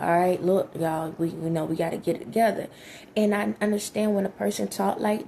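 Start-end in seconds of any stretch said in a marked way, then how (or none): 0.0-2.7 a touch lower, firm no-nonsense tone; mildly stern lower voice getting everyone in line; tough-love voice. Retold or imitated. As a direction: lay down the law, lightly stern. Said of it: "next minute I'm like".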